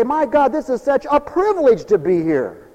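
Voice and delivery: high-pitched, gushing with enthusiasm; fervent new emphasis. Acted. Preacher voicing church workers who now love their chores, fervent and high. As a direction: pile up each privilege with mounting zeal, pitched high. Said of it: "take on a whole new emphasis".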